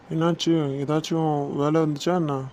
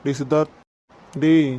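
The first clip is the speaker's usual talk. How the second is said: calling out. Acted. Calling a friend who ignores them.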